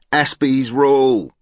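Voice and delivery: high, loud, drawn-out cheer; acted high, slow rallying cry; boy calling out. A narrator's reading. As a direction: stretch it into a triumphant boy's shout. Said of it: "One boy called out".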